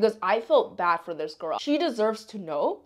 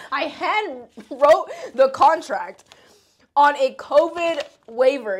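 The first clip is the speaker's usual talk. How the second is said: high, loud and slowed by laughter; laughing confession; 5 semitones higher, 5 dB louder, slower than usual. Real, not acted. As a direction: admit it through real laughter. Laughs at her absurd contract.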